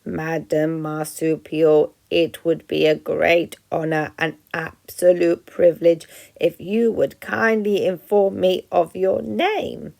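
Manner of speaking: slow, overly polite robot; robot straining to sound friendly; friendliest voice. Acted. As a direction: stiff attempt at warmth. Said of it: "in the friendliest voice she could muster".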